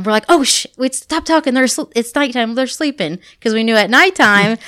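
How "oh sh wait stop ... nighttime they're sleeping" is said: higher, urgent mock shushing; playful retold excitement; excited. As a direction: act out eager movie-watchers hushing each other. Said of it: "we would get all excited".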